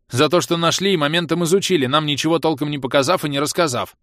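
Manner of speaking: loud, high roar of complaint; indignant roar. A narrator's reading. Bom roars at those who studied the find, roaring. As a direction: roar it out, aggrieved at getting nothing. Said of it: "проревел Бом".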